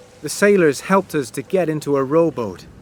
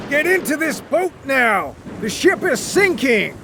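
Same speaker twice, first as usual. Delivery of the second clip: high, raised urgent voice; urgent command; 10 semitones higher than usual. A narrator's reading. Captain urging Wyatt into the boat, raised and urgent. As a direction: order him into the boat.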